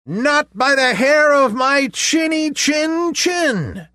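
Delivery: very high squeaky pig refusal; little pig voice. A narrator's reading. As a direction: squeal it out defiantly.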